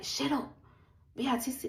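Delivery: mock-angry order to be silent. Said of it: "because he's so angry".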